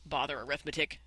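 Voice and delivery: snapped. Acted. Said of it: "snapped Stewart".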